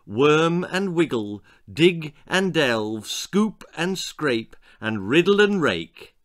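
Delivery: slow, savoring storyteller's list; story narration. A narrator's reading. Narrator reading to children, slow and relishing. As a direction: relish each digging word, slowly.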